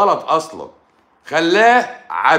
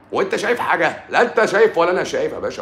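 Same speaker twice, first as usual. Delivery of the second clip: high, laughing mockery; 5 semitones higher, faster than usual. Real, not acted. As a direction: laugh through an incredulous retort. Joking, laughs at absurd claim.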